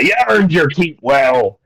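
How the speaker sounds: drawn-out sailor talk, lightly played; slow, pleased old-salt thanks; overjoyed fisherman. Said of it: "he's overjoyed".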